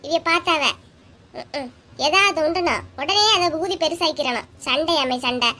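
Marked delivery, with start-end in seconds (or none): 2.1-5.5 annoyed retort, pitch jumping up at the end; irritated raised voice. Acted. Wife denies any quarrel to her husband, irritated raised voice. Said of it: "அதுக்கு ஏன்டி கத்தியா?".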